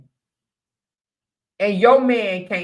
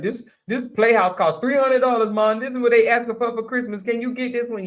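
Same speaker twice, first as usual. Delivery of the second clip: higher, lightly voiced son asking for money; imitating her son asking; 4 semitones higher than usual. Mother voicing her son asking for a Christmas gift, lightly mimicked. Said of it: "he'd be like".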